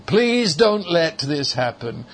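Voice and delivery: imitated plea with little faith; mildly acted helpless plea; hopeless pleading. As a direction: mimic someone begging without much hope. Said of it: "has within it a sort of hopelessness".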